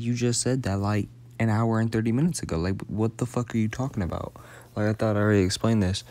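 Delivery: quick, annoyed retelling of his comeback; exasperated rant. Retold or imitated. To his girl on FaceTime, mildly exasperated and quick.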